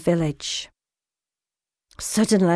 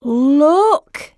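higher, drawn-out call; excited shout; 5 semitones higher, 4 dB louder than usual. A narrator's reading. Frog Finn spotting a canal, excited shout to his brother. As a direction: call it out to point something out. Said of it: "he shouted".

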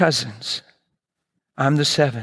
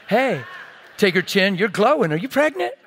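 playful pestering; 6 semitones higher than usual. Pretend. Acting out pestering his daughter-in-law.

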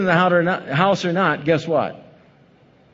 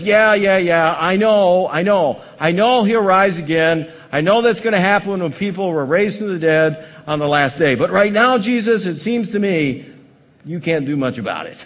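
Martha conceding; 4 semitones higher, 4 dB louder than usual. Acted. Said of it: "And Martha says".

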